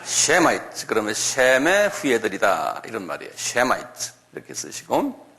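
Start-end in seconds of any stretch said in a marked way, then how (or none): 0.0-0.9 셈아이츠 said slowly as an English word, syllable by syllable; teacher sounding out 셈아이츠 clearly; English pronunciation demo. Shown as a demonstration. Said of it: "한번 발음해 보세요". 3.3-4.1 셈아이츠 said slowly as an English word, syllable by syllable; teacher sounding out 셈아이츠 clearly; English pronunciation demo. Shown as a demonstration. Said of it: "한번 발음해 보세요".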